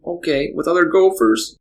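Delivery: put-on high, curious childlike voice; innocent little girl. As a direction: ask like a trusting four-year-old. Dad voices young daughter.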